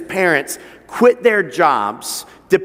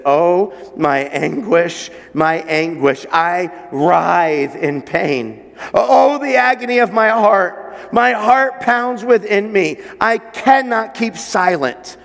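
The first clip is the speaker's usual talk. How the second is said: anguished lament; slower than usual. Acted. God lamenting his lost people, slow anguished cry. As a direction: read God's grief as if it hurts. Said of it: "Why is he talking like this?".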